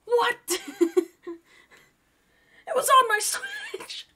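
high, loud laughing disbelief; shriek-laughing in shock. Real, not acted. Spider found on his Switch.

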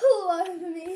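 squealing laugh, then laughing words. Real, not acted. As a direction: shriek with laughter at the splash. Water squirted all over her.

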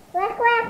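quick wek wek like a duck; duck quack. Shown as a demonstration. Child quacking for a guessing game, playful duck sound.

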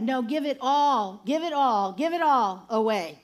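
insistent retold order, leaning hard on "all"; firm command. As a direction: lay heavy, lengthened stress on "all". Voices the Lord's firm answer.

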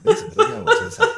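high squeal through laughter; laughing. Real, not acted. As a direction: burst out laughing mid-line. Joking about adult stream.

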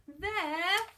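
high, slow, dawning dread; pause, then wail the reveal; drawn-out cry of alarm; horrified. A narrator's reading. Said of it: "he stammered".

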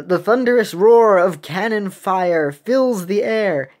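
loud, slow, grand narration; hammed-up storybook narrator; dramatic story reading. A narrator's reading. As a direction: make the battle sound epic.

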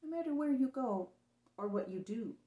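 mother promising her son she'll always be there; tender promise. Acted. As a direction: reassure him gently.

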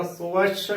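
"ਸਵੱਛ" with an u-glide after s, "su-wachh"; correct pronunciation. Shown as a demonstration. Teacher models the word for learners, "ਸਵੱਛ" as "su-wachh". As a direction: round the s into w in "ਸਵੱਛ". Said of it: "ਉਚਾਰਨ ਕਰਨਾ ਹੈ".

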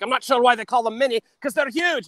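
high, mock-indignant complaint; mad mini guy. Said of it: "mad because he was in the commercial".

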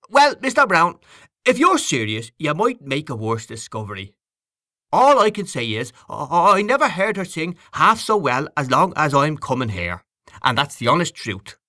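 effusive, slightly argumentative character voice; earnest admirer. A narrator's reading. Voices Freddy Malins, earnest tipsy admirer.

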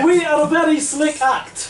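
put-on Russian accent. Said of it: "KGB comedy act".

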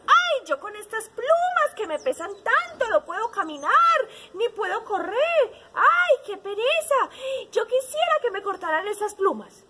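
high-pitched, loud moaning; grumpy hen. A narrator's reading. Hen complaining about her heavy feathers, grumpy. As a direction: whine like a weary, fed-up storybook hen. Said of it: "Y estaban como enojados".

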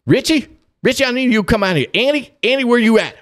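high-pitched imitation of an alarmed call; retold calling out. Worried dad summoning his sons Richie and Andy, calling out.

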